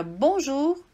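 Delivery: bonjour with a rounded French U, bõʒu. Shown as a demonstration. Teacher to student: model bonjour in French. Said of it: "a primeira dica".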